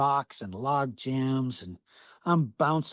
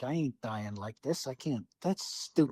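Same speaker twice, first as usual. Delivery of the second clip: retold inner resolve; 2 semitones lower, 6 dB quieter than usual. Hunter thinks to himself on the boat's bow, hushed resolve. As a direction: drop the voice as if reasoning with yourself. Retells private resolve alone in dark.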